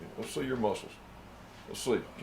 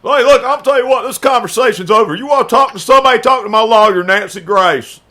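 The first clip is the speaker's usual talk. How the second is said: loud, high, heated sign-off; angry dismissal; 6 semitones higher, 12 dB louder than usual. Acted. Ending the argument with Dan, angry and loud. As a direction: shut the argument down at full volume.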